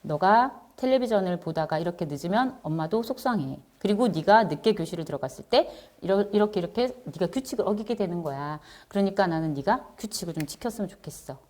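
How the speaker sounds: soft, composed parental explanation; calm and firm. Shown as a demonstration. Parent explaining a rule to a late child, calm and firm. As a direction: explain the rule softly, emotion set aside. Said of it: "이렇게 차분한 마음으로".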